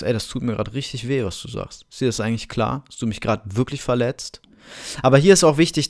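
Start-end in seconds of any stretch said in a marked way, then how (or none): 0.0-4.4 quiet hurt. Shown as a demonstration. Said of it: "Dass du sagst".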